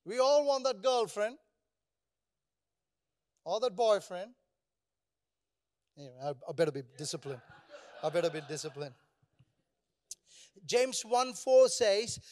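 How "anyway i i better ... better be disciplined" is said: laughing. Real, not acted. Laughing at his own remark.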